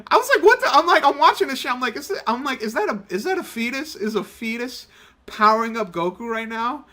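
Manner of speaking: high-pitched baffled disbelief; incredulous. Retold or imitated. Viewer reacting to an absurd anime scene, incredulous.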